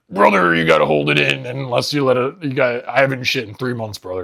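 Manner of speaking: strained mock wrestler bark; lightly hammed constipated wrestler; pro wrestler voice. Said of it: "funnier wrestler impersonation".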